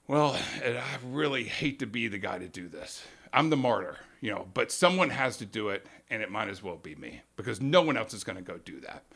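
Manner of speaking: sighing as if it pains him, only a hint; reluctant martyr. Retold or imitated. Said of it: "The reluctant hero is".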